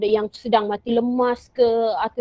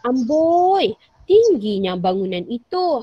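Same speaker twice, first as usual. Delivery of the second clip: kagum; slower than usual. Shown as a demonstration. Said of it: "lagi sekali cikgu ulang".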